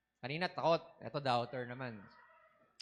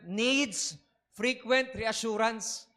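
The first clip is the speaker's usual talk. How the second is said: slow, deliberate reading of the point; 3 semitones higher, much slower than usual. Shown as a demonstration. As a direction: read the point slowly. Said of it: "Sabi dyan". (mabagal na pagbasa)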